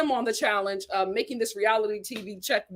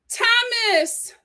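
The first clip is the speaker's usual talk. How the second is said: much higher, called after him; calling out; 11 semitones higher, 4 dB louder than usual. Retold or imitated. Becca calling Thomas back on the stairs. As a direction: call his name as he leaves.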